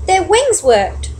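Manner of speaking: high, slow, joyful exclamation; delighted. A narrator's reading. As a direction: marvel at their flying. Joy at flying.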